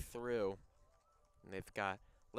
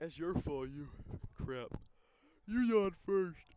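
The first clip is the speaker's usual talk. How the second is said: playful bickering; 7 semitones higher, 7 dB louder than usual. Real, not acted. Playful quarrel over yawning.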